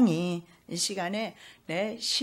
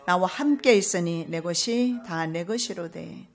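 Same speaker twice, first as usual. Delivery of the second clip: gentle father; 5 dB louder, slower than usual. Acted. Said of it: "부드러운 음성으로".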